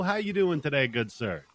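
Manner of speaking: shouted like a cawing crow; crow impression shout. Shown as a demonstration. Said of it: "That's my crow impression".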